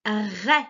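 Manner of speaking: RAY as French R plus open è, like "rè"; open vowel. Shown as a demonstration. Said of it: "Attention, c'est bien le A".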